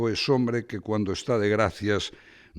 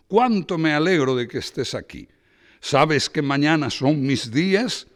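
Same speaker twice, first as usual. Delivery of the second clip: put-on loud, high, hearty old Castilian friend; loud and higher, bursting with welcome; boisterous Braulio; 5 semitones higher, 5 dB louder than usual. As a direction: boom it out like an overbearing pal. Braulio voiced by reader.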